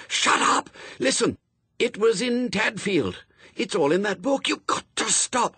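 high, strained, frantic hiss-yell; hissed shout. A narrator's reading. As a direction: urgently talk over the machine. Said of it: "tried to hiss and shout at the same time".

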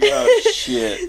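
high shrieking oh shit; mock panic. Retelling Fuller's terror, high laughing shriek.

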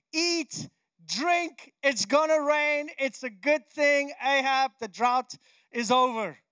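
emphatic, lifted voice of good news; rally him, driving each phrase home; Elijah cheering Ahab. Acted. Elijah announces the drought's end to Ahab, rousing. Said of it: "he says to him".

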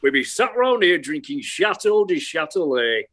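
Four Yorkshiremen sketch voice. Acted. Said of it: "You don't have to come up with the next line".

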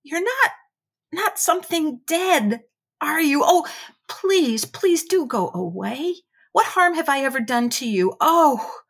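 high, loud panicked pleading; near scream. Acted. Terrified boy begging a ghostly voice to go away, near scream. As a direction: beg in rising terror, almost screaming. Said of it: "he said almost in a scream".

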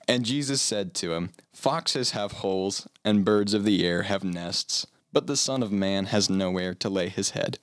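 slow solemn Bible narrator. Pretend. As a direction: read it like a documentary narrator. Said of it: "I'm gonna put on my best narrator voice for this".

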